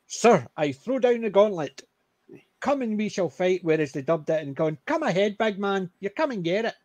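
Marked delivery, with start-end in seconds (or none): 0.1-3.6 put-on proper English accent. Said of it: "proper English". 4.9-6.7 put-on Brummie accent, raised a little in pitch. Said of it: "in a Brummie accent".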